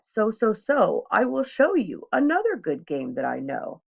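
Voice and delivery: put-on an eager showman cat tempting the kids; playful cat showing off tricks; cat in the hat. Cat refuses to leave.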